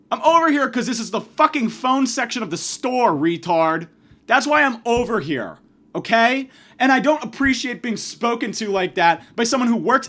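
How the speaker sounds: fed-up customer rant; angry retort. Retold or imitated. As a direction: tear into him, hitting the swear words hard. Acted angry retort to store clerk.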